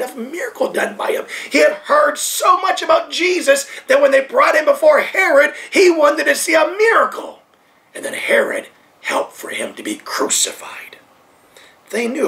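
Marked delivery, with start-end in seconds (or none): 1.5-7.4 raised voice. Real, not acted. Preacher raises voice. 7.9-11.0 stage whisper. Real, not acted. Preacher telling of Herod's betrayal, in a hushed whisper.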